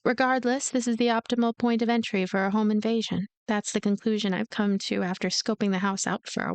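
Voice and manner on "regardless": ordinary delivery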